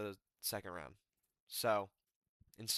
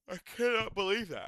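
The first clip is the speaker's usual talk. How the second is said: high, louder cry of disbelief; stunned disbelief; 7 semitones higher, 4 dB louder than usual. Real, not acted. Fan reacting to the fight result, stunned disbelief. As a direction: blurt it out in shock.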